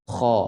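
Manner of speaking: "Kha" heavy, with a wide open vowel; thick open kha. Shown as a demonstration. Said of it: "tebal dan terbuka". ("Kha" tebal dan terbuka)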